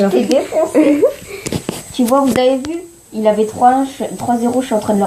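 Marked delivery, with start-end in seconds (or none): 0.0-2.8 gloating. Real, not acted. Gloating after a win.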